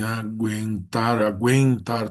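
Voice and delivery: aguentar slowly, with the U heard as gw; sounded U. Shown as a demonstration. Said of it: "tu tem o som do U".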